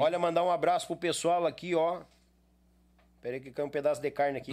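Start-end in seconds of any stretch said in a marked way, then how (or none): 0.0-2.0 talking with a mouthful of meat; mouth full. Real, not acted. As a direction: speak around a bite of food. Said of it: "eu tava falando de boca cheia".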